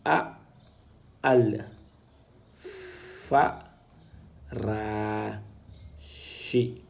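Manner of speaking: "fa ra shi" sounded out syllable by syllable, "shi" breathed out; syllable-by-syllable recitation. Shown as a demonstration. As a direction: sound out each Arabic syllable for students. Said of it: "Donc, c'est K".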